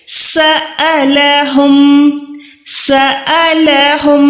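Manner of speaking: सअलहुम slow with a clear break for ع after स; ain in saalahum. Shown as a demonstration. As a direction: draw out सअलहुम with a throat catch. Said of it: "बल्कि". (हलक से सअलहुम)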